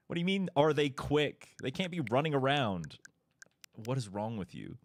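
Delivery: can't believe they asked that; incredulous. Real, not acted. Chat asked if they're quick.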